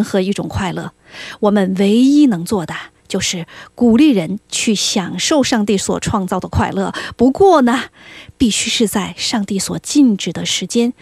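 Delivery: a hint of a crafty devil, slow and deliberate; measured, emphatic delivery as a sly devil; lightly voiced devil. Host imitating the devil from C.S. Lewis's book, lightly voiced, slow. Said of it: "我试着模仿一下哈".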